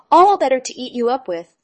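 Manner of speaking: wolf about to pounce; menacing wolf. A narrator's reading. Wolf reveals himself.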